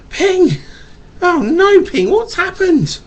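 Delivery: high, loud cry of dismay; mock dismay. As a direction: gasp for the lost little duck. Dismay for lost duck.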